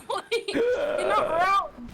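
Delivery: holding back laughter, high and giggly; trying not to laugh out loud; stifled giggles. Real, not acted. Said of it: "I'm trying not to laugh".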